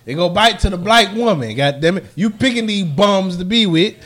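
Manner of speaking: tipsy rant; slightly slurred tipsy talk. Real, not acted. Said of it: "now I'm getting tipsy".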